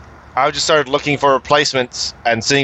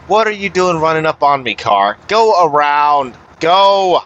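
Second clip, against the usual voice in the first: annoyed at tailgater; 2 semitones higher than usual. Real, not acted. Driver snapping at the car riding close behind, irritated. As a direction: shoo the tailgating car away.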